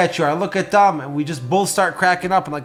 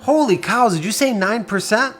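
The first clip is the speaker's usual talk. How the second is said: higher, surprised outburst; mock shock; 3 semitones higher than usual. Shown as a demonstration. Salesperson reacting to a client's high rate, surprised. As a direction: sound amazed at the rate. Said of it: "you have to have that voice inflection".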